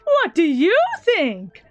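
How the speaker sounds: slow, teasing villain delivery; taunting. Acted. Villain needles Makoto about the family, slow and taunting. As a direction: draw it out to needle them.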